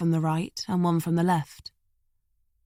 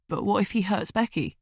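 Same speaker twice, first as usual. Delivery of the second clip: trembling voice; 3 dB quieter than usual. Acted. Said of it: "The kid's voice trembled".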